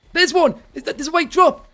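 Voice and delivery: high, loud burst of excitement; excited shout. Real, not acted. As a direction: yell it out as you spot the prize. Spotting the white drop loot.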